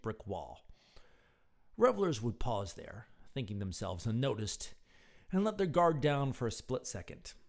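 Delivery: expressive, measured storyteller; story narration. A narrator's reading. Narrator telling of bored Murphy at the speakeasy, story narration. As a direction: read it out like an evening tale.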